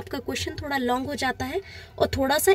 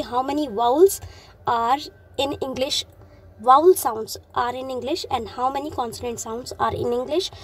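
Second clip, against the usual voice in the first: each word slowly spaced out for copying; slow, spaced exam dictation; much slower than usual. Shown as a demonstration. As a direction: dictate it slowly so students can write. Teacher dictates test question.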